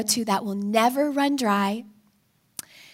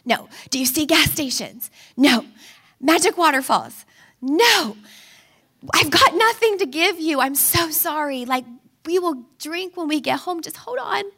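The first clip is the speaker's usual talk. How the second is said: frazzled mom; 3 semitones higher, 3 dB louder than usual. Retold or imitated. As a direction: reason with a child over the car noise. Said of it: "And, like".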